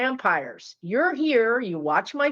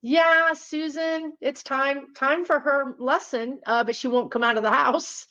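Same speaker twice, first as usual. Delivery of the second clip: a lightly voiced spirit, higher and chirpy; spirit guide voice; 5 semitones higher than usual. Spirits plotting about Susan, lightly mocking chirp. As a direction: play the spirit guide, amused and bossy. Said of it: "Spirit says".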